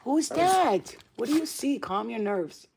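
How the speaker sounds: high, loud questions to a barking dog; pet talk. Real, not acted.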